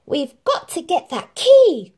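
high, loud squeaky mouse voice; urgent little mice plotting; mice crying out. Acted. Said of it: "cried Gus and Jack".

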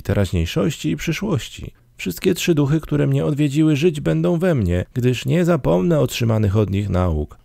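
high-pitched, fervent vow; repentant promise. A narrator's reading. Scrooge promises to remember the three spirits, high fervent repentance. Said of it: "przyrzekał ze skruchą".

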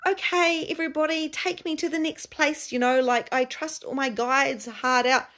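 high, mocking singsong; mock passive follower. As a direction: parody someone waiting on their guides. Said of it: "like, sitting there going".

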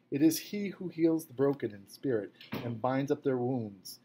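a firm, measured psalm reading; strong reading voice. A narrator's reading. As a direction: read the psalm out strongly for all to hear. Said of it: "he began reading in a strong voice".

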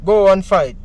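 loud pushed order; commanding shout. Retold or imitated. Retelling the pastor ordering a member to fight, loud.

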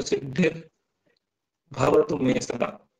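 slow सिद्धिर्भवतु with the "r" articulated; sounded "r". Shown as a demonstration. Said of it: "रा का pronunciation भी ध्यान रखेंगे".

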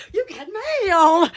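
slow, drawn-out mail alert; perky computer greeting. Retold or imitated. Imitating the dial-up mail feature, perky and drawn-out. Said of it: "you're so perky".

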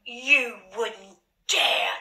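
slow, half-whispered dare; hushed, stretched-out challenge; unsure defiance. Acted. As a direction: draw it out slowly, not too sure of yourself. Barney defies threat, unsure.

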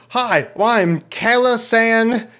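high, slow put-on cutesy voice; mock cutesy read. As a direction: coo the fake name. Reading scam profile mockingly.

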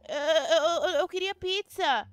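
mock crying. Apologizing to dad, whimpering.

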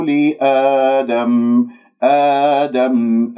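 slow recited "لآدم" with a pure open aa held two beats; chanted "آدم", straight open long vowel; madd badal. Shown as a demonstration. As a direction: lengthen the opening alif of "آدم" evenly. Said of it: "فراح يكون عندي هنا مد بدل".

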